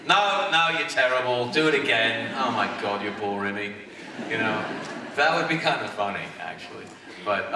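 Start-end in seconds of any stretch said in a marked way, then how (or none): 0.1-3.7 a mean mentor tearing into a weak pupil; Spike as cruel Watcher. Pretend. Spike as Watcher scolding his new Slayer, mockingly harsh. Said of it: "have him be horrible to it".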